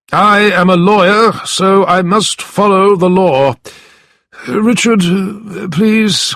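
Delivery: high, put-on voice of a scheming lawyer; theatrical hand-wringing lawyer; sly lawyer feigning dismay. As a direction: play Mister Brass, oozing fake shock.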